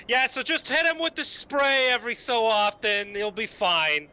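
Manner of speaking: high, loud holler through a curtain; loud call. Acted. Player in gas mask calls through the curtain, loud call. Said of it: "I'm gonna loudly say through the curtain".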